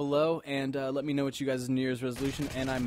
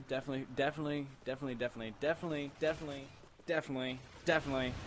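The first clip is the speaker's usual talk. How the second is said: tipsy, slurring the repeats; tipsy, stuck repeating the word; 4 dB quieter, much faster than usual. Real, not acted. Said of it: "I'm a little bit tipsy".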